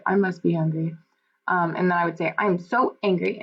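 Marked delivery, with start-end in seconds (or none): 2.4-3.4 mildly angry demo reading; angry, with expression. Shown as a demonstration. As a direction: read it with a touch of anger, stressing SO. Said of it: "I would read it with expression".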